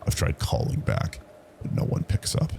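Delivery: usual speaking voice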